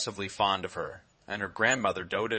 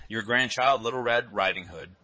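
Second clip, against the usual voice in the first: put-on a big wolf putting on a little girl's voice, a bit louder; wolf faking a girl's voice; 3 semitones higher, 6 dB louder than usual. Wolf at the door pretends to be the granddaughter, mock girlish voice. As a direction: lightly imitate the child. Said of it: "counterfeiting her voice".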